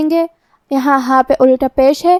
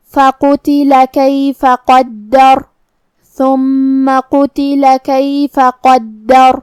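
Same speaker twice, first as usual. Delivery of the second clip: very slow, drawn-out melodic tajweed; Quran recitation; much slower than usual. Shown as a demonstration. Teacher reciting the verse for students, slow melodic tajweed. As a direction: chant each word long and measured.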